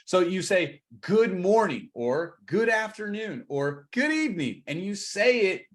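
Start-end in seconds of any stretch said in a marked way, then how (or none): 1.0-1.9 upbeat, energetic greeting; with enthusiasm. Shown as a demonstration. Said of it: "like, with some enthusiasm". 2.5-3.4 higher, upbeat greeting; with enthusiasm. Shown as a demonstration. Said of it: "like, with some enthusiasm". 3.9-4.6 high, singing-out greeting; with enthusiasm. Shown as a demonstration. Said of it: "like, with some enthusiasm".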